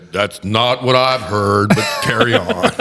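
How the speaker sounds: imitating a dry judge; wry judge. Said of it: "I'd say".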